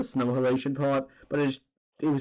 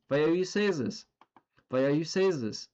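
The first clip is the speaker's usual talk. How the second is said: put-on German accent; 2 semitones higher than usual. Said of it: "the German dude".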